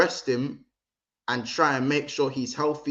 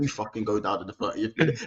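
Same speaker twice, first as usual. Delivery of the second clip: Arteta voice; 3 semitones lower, 4 dB quieter than usual. Retold or imitated. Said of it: "background conversation".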